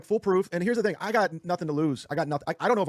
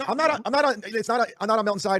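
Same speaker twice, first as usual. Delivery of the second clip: defensive protest; 5 semitones higher than usual. Real, not acted. Denies taking Melton's side.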